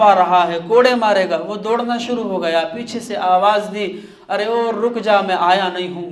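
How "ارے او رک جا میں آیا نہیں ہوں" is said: raised voice calling someone back; shouting after a running man. Acted. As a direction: call after him to stop. Umar calling after fleeing man.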